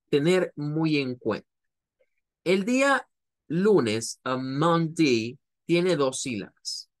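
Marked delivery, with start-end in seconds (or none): 4.2-5.4 Monday said slowly, MON then DAY; slow syllable split. Shown as a demonstration. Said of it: "Una sílaba es mon y la otra sílaba es day". (Monday despacio, sílaba por sílaba)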